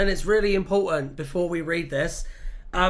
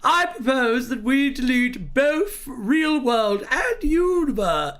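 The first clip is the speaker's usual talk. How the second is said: hammed-up posh accent; 3 semitones higher than usual. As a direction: read it like an outraged posh blowhard. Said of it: "Read it with a posh accent".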